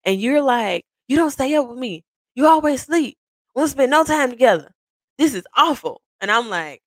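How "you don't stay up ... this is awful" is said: whiny spouse. Retold or imitated. Imitating spouse's complaint.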